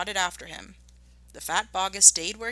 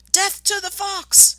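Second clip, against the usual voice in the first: much higher, loud and slow battle cry; shouted; 9 dB louder, slower than usual. Acted. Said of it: "shouted Bounce".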